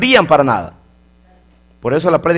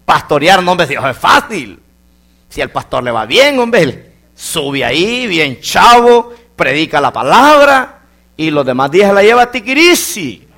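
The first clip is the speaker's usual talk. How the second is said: boastful mock voice. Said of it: "si usted dice".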